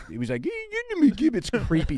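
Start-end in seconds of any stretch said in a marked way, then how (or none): 0.4-1.3 squeaky, very high, silly, dumb dog voice, pet-like. Mocking someone's annoying voice for talking to his dog: Dave Portnoy's dumb dog voice. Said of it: "His dumb dog voice is annoying".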